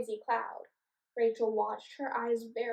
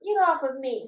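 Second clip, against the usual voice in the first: loud, spluttering goblin protest; 3 semitones higher, 10 dB louder than usual. Acted. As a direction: sputter at the bees. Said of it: "spluttered the goblin".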